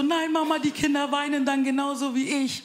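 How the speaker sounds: hohes weinerliches Kinderstimmchen; Kind weinerlich. Retold or imitated. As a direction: wie ein zartes Kind jammern. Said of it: "Die ist dann so". (Tochter zur Mutter, höher und weinerlich)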